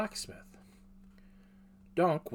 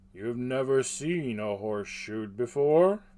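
rough grunting blacksmith; 6 dB louder than usual. Acted. Half-orc smith character voice.

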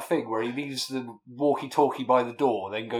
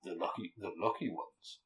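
movie trailer voice; 3 semitones lower, 11 dB quieter than usual. Acted. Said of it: "trying to do the trailer man voice".

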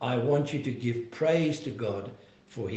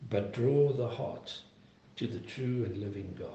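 earnest pastoral prayer voice; closing prayer. Real, not acted. Pastor praying over the congregation, earnest prayer.

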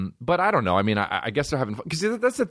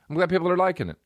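mock high; 9 semitones higher, much faster than usual. Sarcastic repeat, pitched up.

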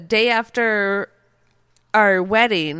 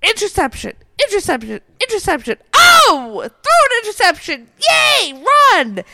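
high-pitched chant building to a loud cheer; will the play to happen, then whoop; excited mock game-watching yells; acted fan cheering; 12 semitones higher, 4 dB louder, faster than usual. Acts out yelling at the TV.

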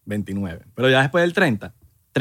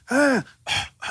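mock coughing gasps; 11 semitones higher than usual. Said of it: "Que un árabe viene así".

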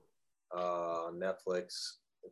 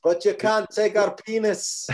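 loud, high, slow parody war cry; hammed-up heroic shout; mock battle cry; 12 semitones higher, 10 dB louder than usual. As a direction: bellow it like a spoof rallying speech. Joining in the Braveheart parody.

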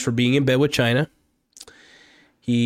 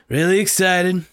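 higher still, eager repeat; really excited; 6 semitones higher, 3 dB louder than usual. Real, not acted. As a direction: push the excitement a notch further.

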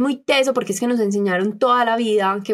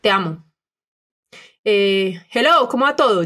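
cheery text message. Retold or imitated. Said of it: "tú sí me escribías".

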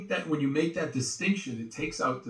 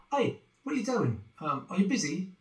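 mock director; 5 semitones higher than usual. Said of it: "He's like".

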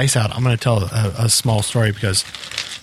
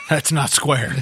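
laughing; 4 semitones higher, slower than usual. Real, not acted.

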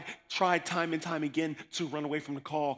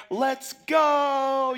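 eager shout; 10 semitones higher, 9 dB louder than usual. Retold or imitated. Eager yes to jail invite.

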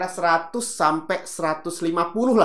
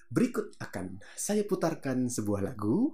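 slow, formal announcer read of "Berikut akan saya putarkan sebuah lagu."; old-school radio announcer; 6 dB quieter than usual. Retold or imitated. Teacher imitating an old-fashioned radio host, slow and formal. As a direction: play a stiff senior radio host introducing a song. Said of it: "pendengar yang budiman".

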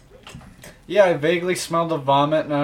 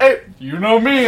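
loud catchphrase; 7 semitones higher, 7 dB louder than usual. Retold or imitated. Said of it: "And I went".

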